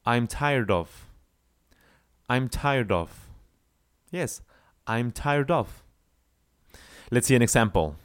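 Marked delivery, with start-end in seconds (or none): 0.1-3.3 "I'm tired of" run together as one word; linked as one word. Shown as a demonstration. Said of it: "like it would be like one word". 4.9-5.8 "I'm tired of" run together as one word; linked as one word. Shown as a demonstration. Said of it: "like it would be like one word".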